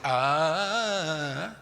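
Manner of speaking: long held "ah" that lifts in pitch; long drawn-out "ah". Shown as a demonstration. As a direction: draw out an open, sustained "ah". Sustains a relieved throat sound. (un "ah" largo y sostenido)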